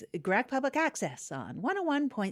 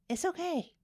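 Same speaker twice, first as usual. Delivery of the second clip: pulling it together; 4 semitones higher than usual. Real, not acted. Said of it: "I'm pulling it together".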